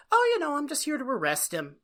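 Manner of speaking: breezy, polite understatement of an arrest; mild-mannered. Retold or imitated. Sheriff politely tells a receptionist of an arrest, mild-mannered. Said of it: "he's very mild-mannered".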